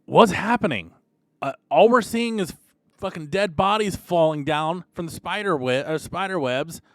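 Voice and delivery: high, loud, rattled questions; alarmed guard. Acted. Guard panicking at the stranger about falling bodies, high alarmed questions. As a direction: demand to know what is going on. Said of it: "The guards look at him and goes".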